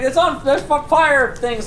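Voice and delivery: high, hurried panic; flustered babble. Acted. Man fleeing the blast, babbling high and flustered. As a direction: sputter like you just escaped a fire.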